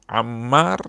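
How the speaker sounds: anguished cry. Real, not acted. Preacher crying out the tortured son's name.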